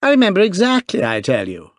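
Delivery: put-on young duke insisting, excited; excited cry. A narrator's reading. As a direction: insist breathlessly, boyish. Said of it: "cried the duke excitedly".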